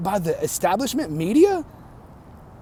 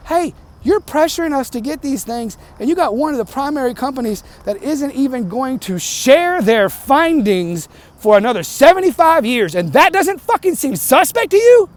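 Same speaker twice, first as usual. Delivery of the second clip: building indignation; 4 semitones higher than usual. Real, not acted. Rising indignation at vaccine pushers.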